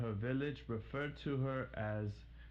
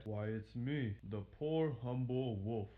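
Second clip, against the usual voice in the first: humble wolf. Acted. Wolf voiced in story.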